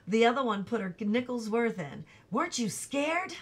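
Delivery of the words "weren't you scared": little sister. A narrator's reading. Younger sister asks brother.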